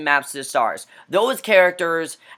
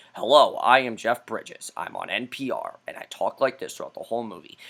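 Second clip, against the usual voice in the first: sleepy public-radio voice, mocking; mocking Jeff Bridges as NPR host; 7 semitones lower, 6 dB quieter than usual. Reviewer mocks the actor as a low, soft NPR host. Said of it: "he sounds like he's on an N P R radio station".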